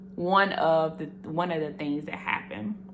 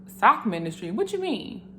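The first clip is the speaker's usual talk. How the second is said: surprised; 3 semitones higher than usual. Retold or imitated. And I was like.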